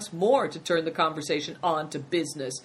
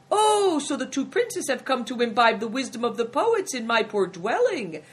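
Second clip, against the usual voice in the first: effusive, higher-pitched welcome; flowery innkeeper's greeting, pitch lifted; smiling exclamation; 7 semitones higher, 4 dB louder than usual. A narrator's reading. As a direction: gush over honoured guests with a smile. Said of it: "exclaimed the innkeeper with a smile".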